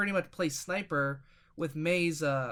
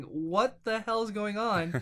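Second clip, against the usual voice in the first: higher, drawn-out baffled teammate; mock bafflement; 4 semitones higher, slower than usual. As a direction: stretch it out in retold disbelief. Quoting baffled teammates in story.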